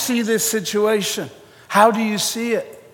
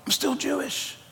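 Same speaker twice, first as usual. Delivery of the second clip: whiny Peter; 5 semitones higher, 4 dB quieter than usual. Acted. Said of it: "Peter's second refusal".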